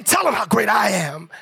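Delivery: firm commanding proclamation; commanding God. Acted. Repeated demand as God.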